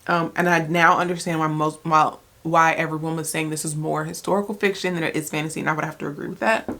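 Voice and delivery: talking while chewing; words round a bite of food; mouth full. Real, not acted. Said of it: "I'm so sorry talking to you with my mouth full".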